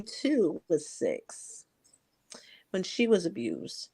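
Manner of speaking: whispered under the breath; real hushed whisper. Real, not acted. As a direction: let it fall to a bare whisper. Revealing her granddaughter's abuse.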